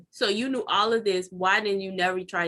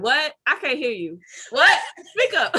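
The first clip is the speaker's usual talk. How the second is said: loud, high mock yell "speak up"; mock shout; 6 semitones higher, 6 dB louder than usual. Answering the husband's whisper, loud mock shouts with a laugh. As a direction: pretend to be deaf to the whisper.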